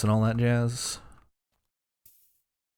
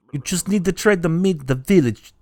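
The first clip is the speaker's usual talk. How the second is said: failed skull voice; 4 semitones higher than usual. Acted. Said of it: "I can't do that voice".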